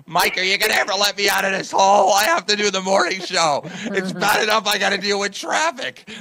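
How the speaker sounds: muffled plea from a pit; creepy captive voice. Pretend. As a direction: call up from the hole.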